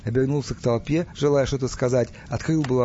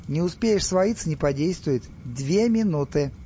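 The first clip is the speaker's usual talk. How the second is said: mocking; 4 semitones higher than usual. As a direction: needle them with a smirk. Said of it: "глумливо улыбаясь". (глумливо)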